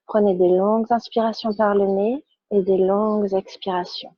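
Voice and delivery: calm, measured yoga-class instruction; unhurried guidance with pauses between phrases; guided relaxation. Real, not acted. Yoga teacher guides students lying on their backs, calm guided relaxation.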